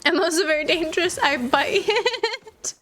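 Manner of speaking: high, bleating sheep voice. Pretend. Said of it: "I did say kinda that like a sheep".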